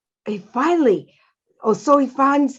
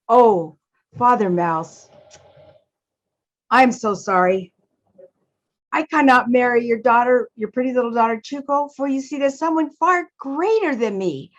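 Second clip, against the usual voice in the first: Mister Wind, apologetic; 2 semitones higher than usual. Acted. Mister Wind declines to marry Father Mouse's daughter, apologetic. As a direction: turn him down gently, with long pauses.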